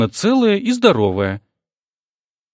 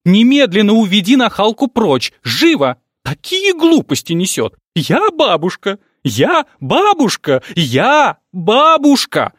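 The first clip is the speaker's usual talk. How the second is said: high, loud, slow wailing; hysterical; 8 semitones higher, 4 dB louder than usual. Acted. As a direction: wail it again and again. Mother hysterical about news.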